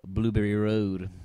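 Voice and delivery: slow and deliberate; slow mock address. Cohost giving a joke home address, slow and deliberate. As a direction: spell it out slowly like a reveal.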